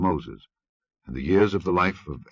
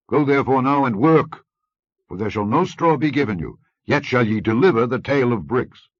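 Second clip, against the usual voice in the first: scornful king; 4 semitones higher, 6 dB louder than usual. Acted. Pharaoh scolds the Israelite officers, loud scornful rebuke.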